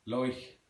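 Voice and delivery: "Loich" for like, OI vowel; "Loich" with Irish OI; Southern Irish pronunciation. Shown as a demonstration. Teacher demonstrating Southern Irish, "Loich" with OI vowel. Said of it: "Again, the O I".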